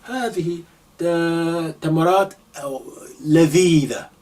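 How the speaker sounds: lightly voiced delighted eater; a touch of relish in the voice; mock enjoyment of the dates; sample sentence acted out. Shown as a demonstration. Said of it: "You can say".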